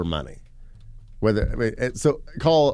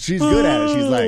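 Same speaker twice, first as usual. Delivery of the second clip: laughing; 4 dB louder than usual. Real, not acted. Laughing tease.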